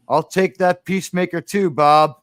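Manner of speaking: mild impression, punching the name at the end; Gene Hackman. Sheriff calling after a gunman walking away, lightly imitated voice. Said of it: "we hear Gene Hackman's voice like".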